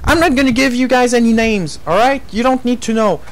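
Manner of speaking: heated angry rant; raging gamer. Real, not acted. Ranting angrily about a YouTuber.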